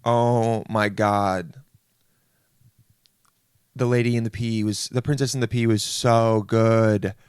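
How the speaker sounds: long drawn-out raving; exaggerated festival-goer praise; mock gushing. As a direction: stretch it out in overdone awe. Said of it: "most people are just gonna be like".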